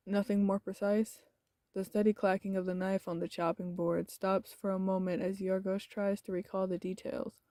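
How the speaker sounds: steady, even reading of the game text; story narration. A narrator's reading. Streamer reading the visual novel to chat, steady narration. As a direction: narrate the scene evenly for viewers.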